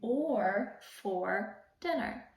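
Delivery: slow, rising on "pancakes", drawn out "or for dinner"; playful question. Shown as a demonstration. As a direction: ask it like a fun riddle. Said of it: "I will say".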